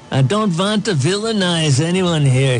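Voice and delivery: put-on a light Austrian Schwarzenegger accent. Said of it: "for a governor accent".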